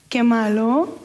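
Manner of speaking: lightly voiced pouting reproach; mock a sulky child, ending on a rise; imitated childish complaint. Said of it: "llegamos con Dios y decimos".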